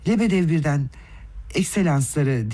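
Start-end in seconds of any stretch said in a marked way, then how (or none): none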